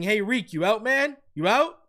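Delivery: acted awkward laugh, slowed. Acting out Waddle calling to Tyreek from the sideline, imitating Waddle's awkward laughing speech. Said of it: "He sounds like he's laughing and he's saying".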